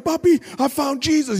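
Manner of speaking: high, sung announcement; sing-song joy. Retold or imitated. Calling his father with the news, sing-song and high. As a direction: sing it out to your dad.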